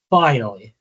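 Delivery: "finally," punched hard and loud; emphatic repeat. Real, not acted. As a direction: hit "finally," with full weight. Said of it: "and I mean".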